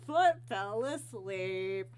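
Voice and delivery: drawn-out mock exclamation, punched on the first word; slow, playful substitute cursing. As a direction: exclaim a silly substitute swear, stretching it out. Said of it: "So I'm like".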